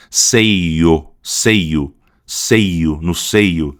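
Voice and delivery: "Seio" with a strongly closed final "io"; Brazilian closed pronunciation. Shown as a demonstration. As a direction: stress the E in "Seio", close the ending firmly. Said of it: "a gente acentua muito mais".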